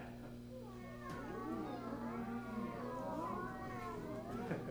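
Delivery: drawn-out high meows; cat meowing. Pretend. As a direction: mew like a cat.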